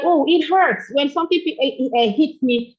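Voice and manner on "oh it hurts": saying it hurts. Shown as a demonstration. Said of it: "Let them see".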